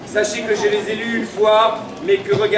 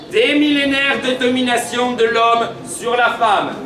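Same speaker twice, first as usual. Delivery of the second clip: town crier; 2 semitones higher than usual. Acted. Proclaiming to crowd.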